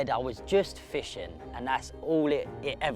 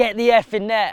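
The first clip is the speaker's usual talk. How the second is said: put-on scream; 8 semitones higher, 11 dB louder than usual. Retelling shouting at a friend to bring the net: imitating a scream. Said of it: "screamed at him".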